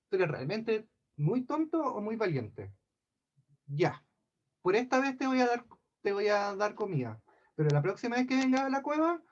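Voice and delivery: loom over him with a warning; a storyteller's mock giant menacing a visitor; threatening giant. Giant Caskel threatens the old man.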